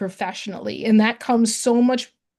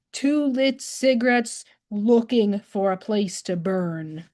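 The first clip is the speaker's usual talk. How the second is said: poem recitation. Acted. Reads her poem aloud.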